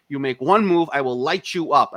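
retold forceful warning; imitated police threat. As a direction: threaten it like a tough cop. Cop threatens him, acted.

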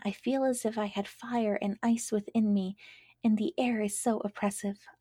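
a caged bird pleading weakly, slowing as it fades; thirsty dying lark. Acted. Captive lark to daisy, faintly lamenting with a whisper.

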